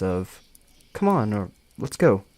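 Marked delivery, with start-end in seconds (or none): 0.9-1.3 mildly panicked, higher-pitched urging; panicky mutter. Acted. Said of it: "Probably a panic mix of the two". 1.8-2.2 a touch of panic, louder; panicky mutter. Acted. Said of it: "Probably a panic mix of the two".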